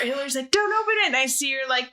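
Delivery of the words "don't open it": put-on high little kid warning; mock child voice. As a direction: play the small child saying it. Kid's voice in retold scene.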